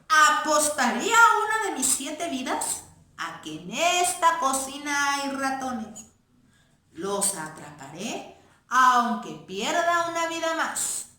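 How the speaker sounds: a cat sure of its prey; boastful cat. Acted. Voices the cat.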